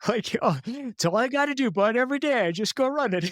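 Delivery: mock-hearty old man, fast at the end; imitating dad. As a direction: play the dad, chipper and proud of himself. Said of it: "he, he says".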